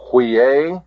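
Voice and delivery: "huiae" said alone, ending in an AY sound; pronunciation demo. Shown as a demonstration. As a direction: model "huiae" clearly. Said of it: "The pronunciation of this".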